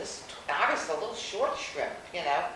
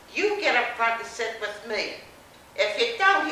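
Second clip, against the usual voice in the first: louder, higher command; loud order; 4 semitones higher, 7 dB louder than usual. Retold or imitated. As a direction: boss her into the front seat. Man orders narrator up front.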